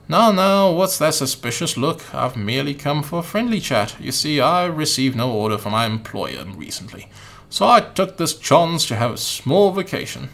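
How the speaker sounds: put-on light British accent, half-hearted; a slightly put-on British gentleman. Umbrella Man chatting to the boy in a mild British accent. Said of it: "let's give him a British voice".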